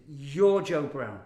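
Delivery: loud, slow, certain accusation; insistent stranger. Retold or imitated. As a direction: say it like you've caught him out. Stranger insists he's Joe Brown.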